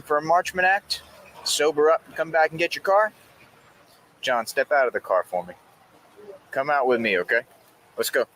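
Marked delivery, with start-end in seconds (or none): 4.2-8.2 calm, then rising pitch; calm turning angry. Real, not acted. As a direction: patience running out, getting firm. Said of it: "officer's patience wearing thin".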